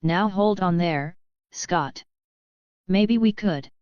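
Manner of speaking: light, unhurried Southern drawl; mild Southern twang, relaxed; easy southern drawl. A narrator's reading. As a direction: speak with an easygoing Southern accent. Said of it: "said in his easy southern drawl".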